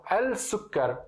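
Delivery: "al-sukar" said slowly with the article al; slow careful al-sukar; Arabic article al before sukar. Shown as a demonstration. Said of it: "em árabe, quando você coloca al".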